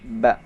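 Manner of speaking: BA with both lips fully closed; bibir rapat sempurna. Shown as a demonstration. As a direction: press the lips together, then release a short BA. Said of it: "Bibir disempurnakan". (ba dengan bibir disempurnakan)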